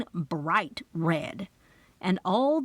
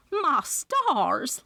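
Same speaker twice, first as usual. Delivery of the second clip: gasped; 6 semitones higher than usual. A narrator's reading. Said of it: "Loretta gasped".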